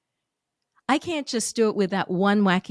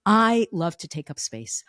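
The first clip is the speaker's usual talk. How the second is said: "I" leaned on, the rest lower; stress on I; 4 semitones lower than usual. Shown as a demonstration. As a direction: open firmly on "I", then drop away. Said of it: "the emphasis on words".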